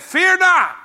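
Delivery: slow, loud, lofty shout; booming angel proclamation. Acted. Preacher to congregation, voicing the angel in a slow booming shout.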